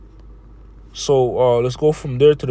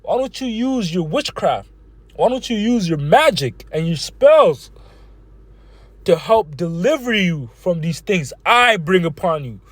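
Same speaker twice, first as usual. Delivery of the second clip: mocking Lord; 2 semitones higher than usual. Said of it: "the Lord here is mocking them and saying".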